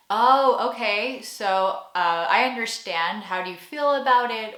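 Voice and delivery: a hint of diplomatic, hedging American; tactful American. American softening a reaction to what someone said, lightly acted tactfulness. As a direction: react tactfully, feeling for the words. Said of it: "an American would be like".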